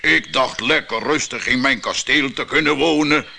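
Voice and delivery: loud booming giant voice; thundering giant. Acted. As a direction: thunder it out, furious. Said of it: "donderde de reus".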